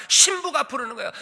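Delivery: normal talking voice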